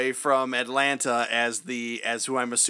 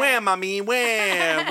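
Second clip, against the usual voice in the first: put-on crying baby wail; 6 semitones higher, much slower than usual. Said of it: "make sounds like crying children".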